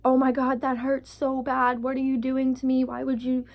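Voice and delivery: mild mock yell of pain; half-hearted screamed complaint; retold scream.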